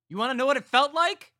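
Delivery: high, loud taunting shout; menacing shout. A narrator's reading. Carl taunting Roger about the killing, loud. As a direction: throw it at him like a threat.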